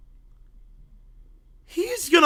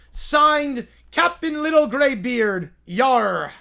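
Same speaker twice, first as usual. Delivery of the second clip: pirate voice; 3 semitones higher than usual. Acted. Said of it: "It's entirely in pirate speak".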